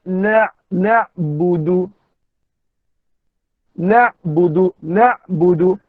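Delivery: "nak budu" slow, with "nak" pressed in the throat; ain, slightly pressed. Shown as a demonstration. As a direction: squeeze the ain at the end of "nak". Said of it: "dengan sedikit tekan". ("nak budu" dengan ain ditekan sedikit)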